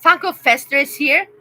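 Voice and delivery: excited. Real, not acted. Excited arrival of a fan.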